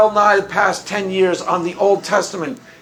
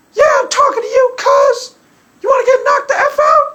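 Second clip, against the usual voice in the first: put-on high-pitched tough-girl taunt; mock gangster threats in a much higher voice; Stephanie imitation. Imitating Stephanie taunting Doctor Josh, high mock-tough voice. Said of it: "That's my Stephanie imitation".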